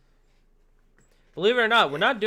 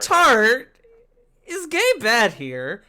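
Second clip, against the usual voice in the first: laughing; 6 semitones higher, 7 dB louder, much slower than usual. Acted. Repeating the joke line.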